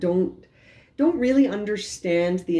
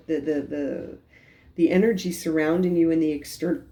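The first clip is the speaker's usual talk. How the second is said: talking through hiccups; words broken by hiccups. Real, not acted. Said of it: "excuse me, I keep hiccuping".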